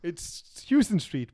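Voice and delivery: Houston said as HOW-ston; Houston with HOW at the start, not HYOO; New York pronunciation. Shown as a demonstration. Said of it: "Houston is pronounced".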